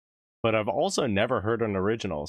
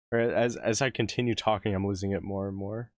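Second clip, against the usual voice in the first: hoarse voice. Real, not acted. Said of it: "I'm losing my voice just as we speak".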